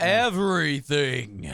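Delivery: long, drawn-out word; slow hammed-up lament; mock-dramatic echo. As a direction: drag the word out theatrically.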